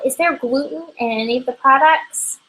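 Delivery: lightly voiced curious customer; customer asking. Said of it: "trying to think of a question".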